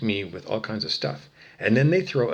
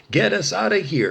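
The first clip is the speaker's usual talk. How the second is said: loud, high imitation of pleading; mock desperate cry; 9 semitones higher, 6 dB louder than usual. Mimicking the damned yelling to get out, mock-desperate. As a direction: cry out as the trapped victims. Voices the damned begging for escape.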